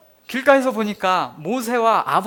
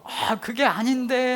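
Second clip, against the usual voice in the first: wronged; 6 semitones higher, slower than usual. Retold or imitated. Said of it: "억울해서 미칠 지경이죠".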